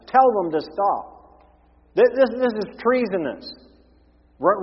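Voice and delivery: high, loud outraged accusation; indignant Pharisees. Acted. The Pharisees object to Jesus's disciples, indignant and loud. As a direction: splutter with shocked indignation at treason.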